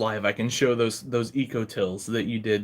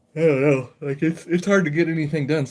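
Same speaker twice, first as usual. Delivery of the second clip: talking through yawns, higher; 5 semitones higher, 5 dB louder than usual. After a long weekend, speaker talking about a rough time at work, yawning. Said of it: "I'm yawning so much".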